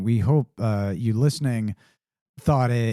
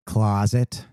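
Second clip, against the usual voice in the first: Midwest closet; 2 semitones lower than usual. Shown as a demonstration. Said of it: "lean into my Midwest accent".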